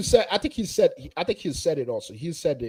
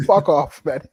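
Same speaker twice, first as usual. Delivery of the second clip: loud, curt mock cuss-out; retold angry outburst; 3 semitones lower, 4 dB louder, slower than usual. Fan recalling his rage at a goal, loud mock snap. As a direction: blurt it out like you're fed up. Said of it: "I was angry".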